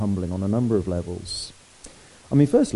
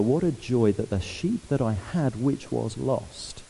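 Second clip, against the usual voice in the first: slowing down, fading soft at has been found; joyful; 3 dB quieter, slower than usual. Pretend. Preacher voicing the shepherd glad the sheep is found, softly. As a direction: savour the joy, gently and slowly. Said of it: "But rather".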